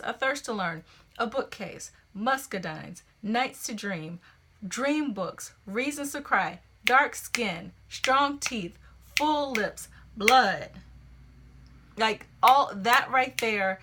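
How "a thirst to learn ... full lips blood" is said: poem reading that builds pace; stressed reading. Shown as a demonstration. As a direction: read with the beat marked. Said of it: "So listen to this".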